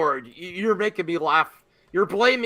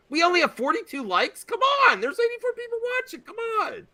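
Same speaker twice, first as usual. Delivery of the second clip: incredulous plea pitched way up; high-pitched pleading; 12 semitones higher, 5 dB quieter than usual. Real, not acted. Mock complaint about low like count.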